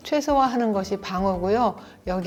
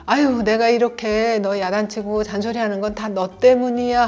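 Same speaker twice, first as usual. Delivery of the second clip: defensive blame; 4 dB louder than usual. Shown as a demonstration. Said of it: "상대에게 책임 전가를 하거나".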